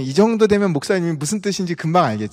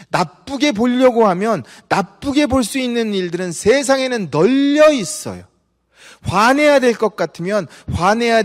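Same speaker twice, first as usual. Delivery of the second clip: rising, fervent sermon delivery held higher; preaching; 6 semitones higher than usual. Acted. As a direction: press the point home to the congregation. Preacher building to a climax.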